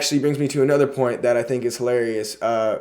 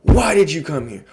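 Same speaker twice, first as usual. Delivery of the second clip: a mild retold demand, slightly raised; freaking out; 3 semitones higher than usual. Retelling Mister Hart's outburst, mildly heated. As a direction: start the demand only a little worked up. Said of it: "He starts freaking out".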